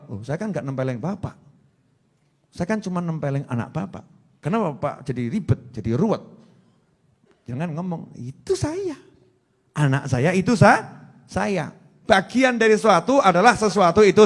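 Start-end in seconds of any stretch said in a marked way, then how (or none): 0.1-6.2 acted excuse. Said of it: "Orangnya jawab". 8.2-11.7 acted parent's protest. Acts indignant parent claiming child.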